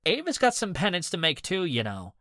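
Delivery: high, loud indignant rant; indignant complaint. A narrator's reading. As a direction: defend him hotly to the group. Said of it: "Alistair complained".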